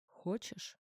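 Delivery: husband murmurs to his ex, leaning in; intimate murmur. A narrator's reading. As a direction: breathe the question against her lips. Leans in to her lips.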